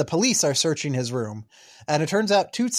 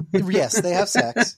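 voice breaking; slower than usual. Real, not acted. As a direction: voice cracking on sex, slow. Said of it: "Why did that make your voice break?".

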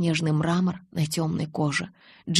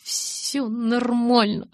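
slow, trembling, higher insistence; shivering protest; 5 semitones higher, much slower than usual. A narrator's reading. Bella insists she is fine while freezing. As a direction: protest through chattering teeth. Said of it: "запротестовала я".

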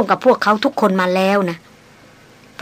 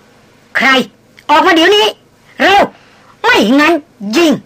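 much higher, louder playful threat; mock growl; 7 semitones higher, 5 dB louder, slower than usual. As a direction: bark the threat while holding back laughter. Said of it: "หล่อนคำรามออกมาพร้อมๆกับหัวเราะ". (คำรามขู่แบบแกล้งๆ เสียงดัง)

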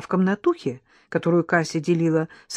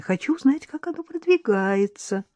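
smiling; 8 semitones higher than usual. A narrator's reading. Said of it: "улыбнулась няня".

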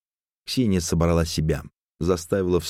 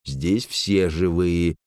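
raising her voice; much slower than usual. A narrator's reading. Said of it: "повысила голос Беломестова".

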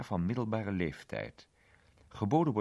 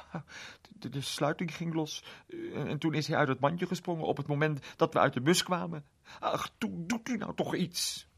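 put-on higher, anxious little girl begging; pleading girl; 8 semitones higher than usual. A narrator's reading. Small girl begging the policeman to send the crowd away, higher and anxious. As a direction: beg the policeman to help, voice raised and worried.

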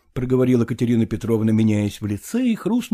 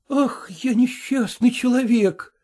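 exclaiming; 10 semitones higher, slower than usual. Acted. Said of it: "воскликнул он".

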